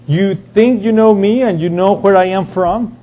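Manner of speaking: mildly sarcastic question with a little lift, challenging. Acted. Jesus to the temple crowd, lightly sarcastic. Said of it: "in a sarcastic way".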